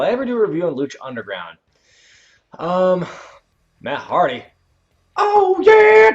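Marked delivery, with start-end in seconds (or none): 5.2-6.1 high, loud, raspy wrestler yell; Macho Man voice. Retold or imitated.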